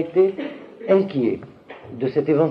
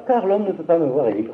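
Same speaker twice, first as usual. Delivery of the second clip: mild rote reading, pitched higher; lecture routinière; 4 semitones higher than usual. Shown as a demonstration. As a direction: read it out of habit, without insistence. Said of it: "habitué, on lit ça". (lecture machinale, par habitude, un peu plus aiguë)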